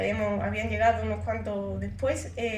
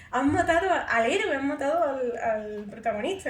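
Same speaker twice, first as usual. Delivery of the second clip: mock-alarmed, pitch raised at first; retold shock. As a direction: exclaim at a plot twist in playful disbelief. Retold shock at script deaths.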